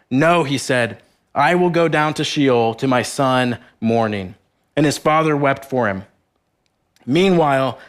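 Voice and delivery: measured, even Bible reading voice; scripture reading. Acted. Preacher reading Genesis aloud to the congregation, solemn reading. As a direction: read the passage steadily and solemnly.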